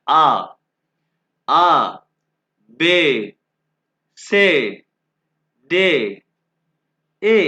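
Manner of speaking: loud clear letters for the class to repeat; alphabet drill. Shown as a demonstration. Teacher drilling German letters to students: loud, separated. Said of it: "दो दफ़ा इसको pronounce करूँगा".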